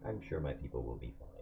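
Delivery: low, quiet, chillingly calm; cold serial killer. Acted. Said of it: "He says this in, like, a s-, cold fucking".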